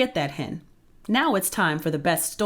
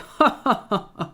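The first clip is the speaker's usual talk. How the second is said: loud, higher mocking cackle; ugly giant laugh; 6 semitones higher, 4 dB louder than usual. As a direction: laugh cruelly at the trapped boy. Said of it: "The giant laughed an ugly laugh".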